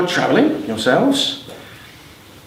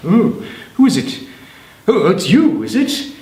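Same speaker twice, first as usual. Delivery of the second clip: higher, prim gatekeeper; a lightly voiced prim Saint Peter; 4 semitones higher than usual. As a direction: peer out disapprovingly. St Peter at the hatch.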